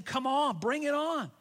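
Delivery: rising, inviting voice of God; God cheerfully daring you to complain; voicing God, inviting. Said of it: "God's in heaven saying".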